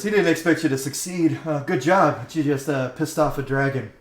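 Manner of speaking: sarcastic pat on the head; mock praise. Rider mockingly congratulates the party, sarcastic and loud.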